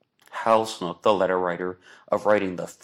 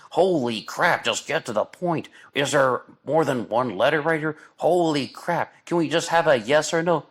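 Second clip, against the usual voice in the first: exasperated outburst; 8 semitones higher, 3 dB louder than usual. Retold or imitated. Exasperated retold reaction to documentary.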